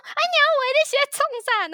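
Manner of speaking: high mock-frantic dad cry; imitating panicked dad. Dad rushes over to his hooked daughter, mock panic. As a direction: play the terrified father, half-hammed. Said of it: "我爸当下就吓坏了".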